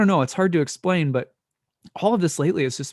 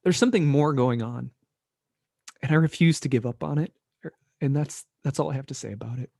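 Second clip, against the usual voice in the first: blubbering; faster than usual. Real, not acted. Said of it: "I'm so emotional".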